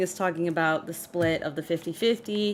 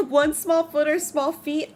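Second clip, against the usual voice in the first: laughing through the words, a bit louder; 7 semitones higher, 4 dB louder than usual. Real, not acted. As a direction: chuckle it out in amusement. Laughing at the diss line.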